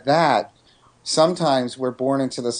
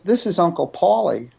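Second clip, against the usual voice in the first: imitating little son; 5 semitones higher than usual. Toddler son voiced in story.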